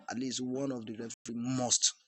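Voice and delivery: "must" stressed hard as the final word. Real, not acted. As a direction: land firmly on "must" at the end. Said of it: "Emphasis on the word must".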